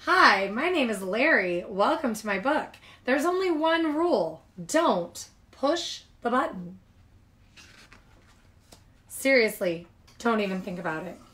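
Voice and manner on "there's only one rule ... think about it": Larry's warning. Acted. Larry the character warns readers.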